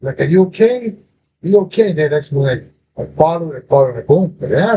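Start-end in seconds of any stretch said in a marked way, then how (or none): 0.2-1.9 clearer, closer voice. Retold or imitated. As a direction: call it out more clearly once you focus on it. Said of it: "I focus in that fucking voice".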